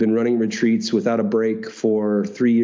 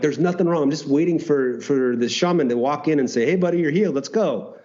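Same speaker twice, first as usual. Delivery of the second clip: mild retold frustration; 4 semitones higher than usual. Telling how he waited for the shaman, mildly frustrated. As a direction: replay frustrated self-talk, pitch lifted in places. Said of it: "I was frustrated. I'm like".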